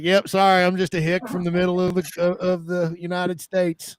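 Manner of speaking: lightly put-on rural American hick accent. Agent joking to Canadian clients, mild American hick accent. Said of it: "I can do that accent a lot better".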